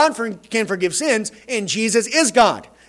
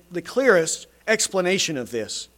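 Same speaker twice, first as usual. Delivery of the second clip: ordinary talk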